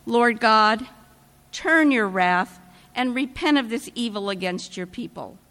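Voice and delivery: hushed, reverent plea to God; a light touch of prayer; prayerful tone. Retold or imitated. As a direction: pray it humbly, as Moses pleading. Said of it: "in a more prayerful tone".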